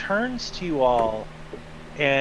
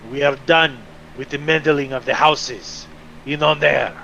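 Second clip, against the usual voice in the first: louder, pressing threat; cold threat; 4 dB louder than usual. Acted. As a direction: spit it at the prisoners behind bars. Angry official threatens the prisoners.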